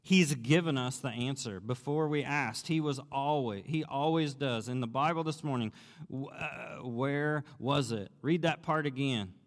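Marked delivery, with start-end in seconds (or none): 0.0-4.7 excited. Retold or imitated. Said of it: "exclaimed excitedly".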